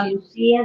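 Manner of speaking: parucía stressed on the í. Shown as a demonstration. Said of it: "lleva el acento en la I".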